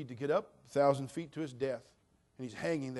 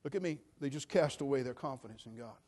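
normal talking voice

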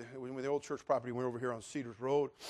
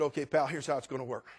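angry order; 3 semitones higher, 12 dB louder than usual. Retold or imitated. Pastor ordering the couple off church property, cold then shouting. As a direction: start cold, end yelling. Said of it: "falls under the wrong kind of anger".

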